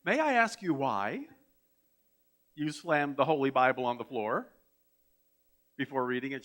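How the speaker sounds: lightly put-on minister's calm; calm ministerial voice. Minister questions the woman after the service, lightly put-on calm. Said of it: "said in that calm ministerial voice".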